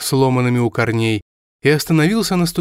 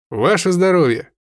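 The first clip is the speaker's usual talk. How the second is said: loud toast; 6 semitones higher than usual. Acted. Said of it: "громко сказал по-русски".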